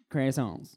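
croissants drawn out as CRASS-ahnts; slow American "croissants" with a crisp R; Americanized pronunciation. Shown as a demonstration. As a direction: sound every consonant in "croissants", American style. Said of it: "It's for the American market".

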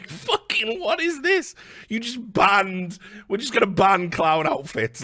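high, laughing incredulity; high disbelief through laughter. Real, not acted. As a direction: crack up at how absurd it is.

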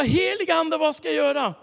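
high, loud call to the Holy Spirit; urgent plea. Retold or imitated.

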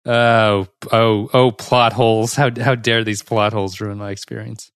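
mock outrage over plot holes; hammed-up fake indignation; sarcastic. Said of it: "I'm being sarcastic".

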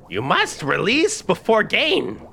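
high, slow witch voice; frustrated witch. Acted. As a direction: lecture like an impatient witch. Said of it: "the witch is frustratingly trying to teach".

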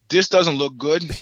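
slow, emphatic mock foreboding; retold wary realization. Podcaster replaying his reaction to police cars, slow and loudly wary.

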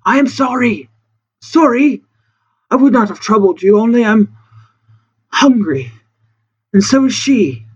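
hopeless and pathetic. Acted. Castaway begging food from a ship in the dark, hopeless and pathetic. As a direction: plead pitifully, broken up by pauses. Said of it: "sounding extremely hopeless and pathetic".

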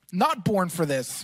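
the joke undone, a cold man's grumble; deflated. Retold or imitated. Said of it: "I was walking in the freezing water going".

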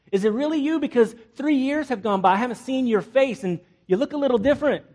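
sarcastic Ahab. Pretend. King Ahab taunting Elijah, high and mocking. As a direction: sneer it like a king taunting a rival. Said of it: "he exclaimed".

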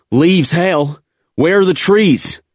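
high, loud incredulous shout; yelling back. A narrator's reading. Marine arguing with the veteran under fire, yelling back. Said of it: "I yelled back at him".

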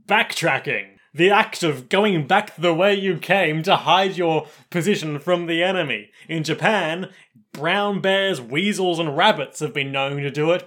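lightly put-on explainer narrator; documentary narrator. Narrator cutting in to explain backtracking, lightly imitated. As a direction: deliver it like a measured, weighty definition. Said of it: "The narrator cuts in here".

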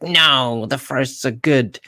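a cartoon villain's booming threat. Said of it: "I'm doing, like, a villain voice".

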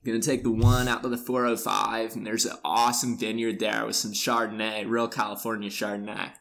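lightly voiced California surfer dude; a hint of laid-back surfer talk. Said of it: "like a surfer dude".

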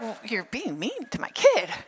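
swooping pitch, indignant mock confrontation; comically wounded protectiveness; mock indignant parent. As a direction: play the affronted parent, pitch leaping up and down. Acted indignant parent confronting a child.

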